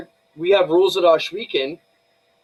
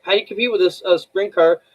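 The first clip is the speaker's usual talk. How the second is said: incredulous; 6 semitones higher, 3 dB louder than usual. Retold or imitated. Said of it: "and I'm like".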